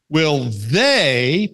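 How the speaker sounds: "they" stressed with a rising lift; "Will they" with a stressed, rising "they". Shown as a demonstration. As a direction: push the word "they" up to make it plural.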